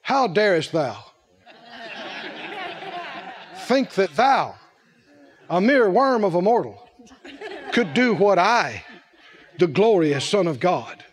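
a hint of grand, archaic rebuke; low mock pomp, broken by long pauses; mock-indignant Jesus. Mock Son of God rebuking a mere mortal, lightly pompous. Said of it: "And Jesus said".

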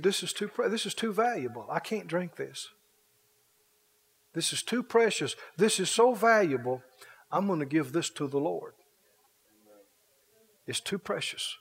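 soft, humbled refusal; quietly moved, as if holding something holy; hushed reverence. Acted. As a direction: drop the voice in reverence, with pauses. David moved, refuses the water.

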